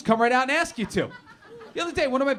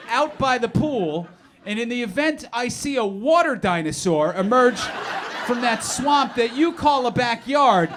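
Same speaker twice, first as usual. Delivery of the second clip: incredulous recap; 3 semitones higher, 3 dB louder than usual. Acted.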